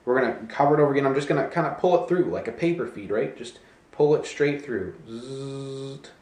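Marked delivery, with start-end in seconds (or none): 5.1-6.1 quiet buzzing zzzt; imitated zip noise. Pulling the bill straight through, imitated zip. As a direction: make a soft little paper-feed zip.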